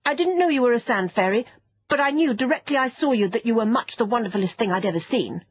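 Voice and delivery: put-on gushing boy. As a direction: pour out eager flattery. Boy gushes to flatter creature.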